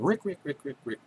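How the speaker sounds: mimicking the bird's call for friends; bird call imitation. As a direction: chirp the name like a songbird. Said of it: "And mine's going".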